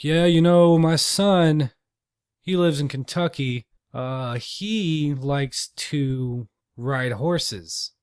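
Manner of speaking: put-on old man droning on, starting loud; a hint of a lonely old talker; rambling old man. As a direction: ramble slowly about the son in Kentucky. Old man rambling about son.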